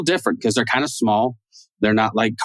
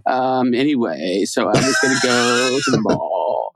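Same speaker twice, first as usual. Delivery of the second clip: put-on slow, bored vocal fry of a disinterested girl; imitating bored girls talking about the mall, slow vocal fry; slower than usual. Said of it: "that whole Fry voice where girls are like".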